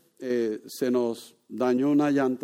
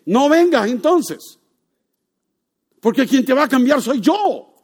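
voice of Jesus; 12 semitones higher, 10 dB louder than usual. Acted. Preacher voicing Jesus answering the sinner, loud and commanding. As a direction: declare it with full authority.

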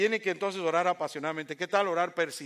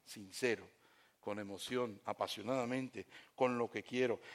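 sincere; 5 semitones lower, 7 dB quieter than usual. Real, not acted. Describing sincere prayer, hushed.

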